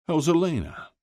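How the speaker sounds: a dad ribbing his son at breakfast; father's voice. A narrator's reading.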